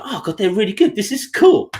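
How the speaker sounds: rising, pleasantly surprised aside; retold pleased relief. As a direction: let it climb into delighted relief. Relieved inner reaction, retold.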